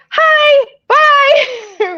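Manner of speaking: very high, loud, cheeky call; mock hurried greeting. Man flees past the babysitter, frantic loud greeting. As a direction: imitate a frantic hello-and-goodbye in passing.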